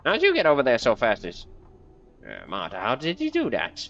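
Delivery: put-on high muttering old woman; startled crone. Marta startled by the stranger, a high grumbling crone. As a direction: squint and grumble about the stranger.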